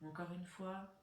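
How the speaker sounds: sparse, unhurried meditation-style guidance; guided breathing. Real, not acted. Leads a breathing exercise.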